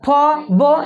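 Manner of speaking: very slow, each syllable drawn out for the class; slow demo syllables. Shown as a demonstration. Teacher showing students the lip sounds, said very slowly. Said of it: "अब पो फो बोलो".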